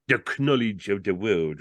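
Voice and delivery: solemn pronouncement falling on "world"; mock-solemn salesman; great solemnity. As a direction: intone it gravely, as a statement. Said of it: "repeated Fillmore with great solemnity".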